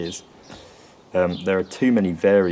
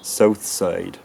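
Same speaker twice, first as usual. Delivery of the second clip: "South Side" in a 1600s English accent, vowel starting central. Shown as a demonstration. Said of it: "something more like".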